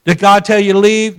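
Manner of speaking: imitating a gruff pastor's firm questioning; kinda gruff. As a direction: challenge him brusquely. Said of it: "It was kinda gruff".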